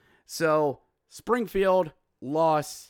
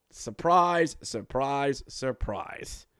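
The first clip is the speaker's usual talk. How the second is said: sarcastic fading surprise; much slower than usual. Real, not acted. Host mocking the obvious star pick, fading sarcastic surprise. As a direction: dryly fade the fake surprise to a whisper. Mock surprise at expected winner.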